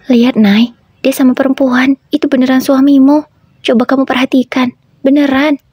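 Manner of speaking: a lightly voiced pushy best friend pointing something out; Nanda's voice. Narrator voices Nanda urging. (suara sahabat yang mendesak, lebih tinggi)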